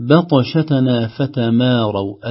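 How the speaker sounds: بطشتنا with a thin, light ب, slow. Shown as a demonstration. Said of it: "نراعي ترقيق الباء". (ترقيق الباء في بطشتنا ببطء)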